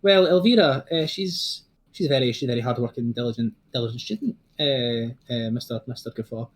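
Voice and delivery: a hint of an old professor who no longer cares; weary professor. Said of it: "Professor Falconhoof goes".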